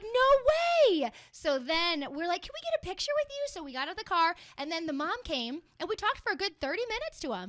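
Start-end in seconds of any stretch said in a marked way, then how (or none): 0.0-1.1 high, loud thrilled no way; higher, louder starstruck no way; excited no way. Retold or imitated. Starstruck reaction retold. 2.4-3.4 high, fast eager question; higher quick hopeful ask; eager fan ask. Retold or imitated. Fans asking for photo.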